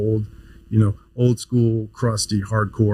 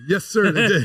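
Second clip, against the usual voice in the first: lightly voiced eager student, pitched up; eager student reply; 9 semitones higher than usual. Med student answering the Vietnam vet chairman, eager and pitched up. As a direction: chirp it like a keen young recruit. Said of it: "I go".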